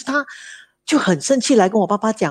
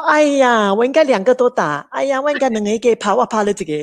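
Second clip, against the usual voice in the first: father's hammed-up exclamation, louder and higher; mock loud exasperated "哎呀" from the father; 4 semitones higher, 3 dB louder than usual. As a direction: imitate the old father's loud exasperated outburst. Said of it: "他说".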